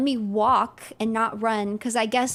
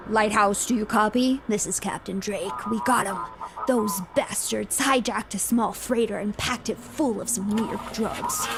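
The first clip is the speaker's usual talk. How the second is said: a lightly voiced ship captain on the radio, a bit lower; 4 semitones lower than usual. Captain radioing the lighthouse for guidance, lightly voiced. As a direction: read the captain's radio call steady and official.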